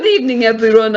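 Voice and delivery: formal greeting in a put-on Russian accent; attempted Russian-accented inspector. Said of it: "let's just keep it a Russian".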